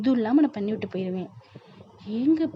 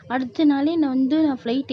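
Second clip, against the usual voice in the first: raised protest; 4 semitones higher, 5 dB louder than usual. Acted. Daughter argues back with mother.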